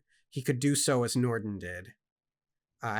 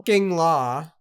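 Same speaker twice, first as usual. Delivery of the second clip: loud, angry swearing, raised pitch; appalled, emphatic outburst; indignant; 4 semitones higher, 8 dB louder than usual. Real, not acted. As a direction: spit out real exasperation at the rule. Indignant outburst at the book's law.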